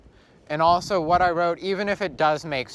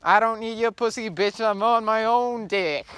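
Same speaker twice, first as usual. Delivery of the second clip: cocky bro voice; 8 semitones higher, 4 dB louder than usual. Retold or imitated. Acting out a boastful quote.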